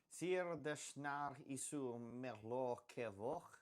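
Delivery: slow, careful attempt at an unknown language; sounding out foreign words. Real, not acted. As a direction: pronounce unfamiliar words as best you can. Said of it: "tried to pronounce it as best".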